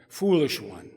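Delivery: a mild reproachful rebuke. Acted. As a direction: chide her gently for her foolishness. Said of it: "says the rabbi reproachfully".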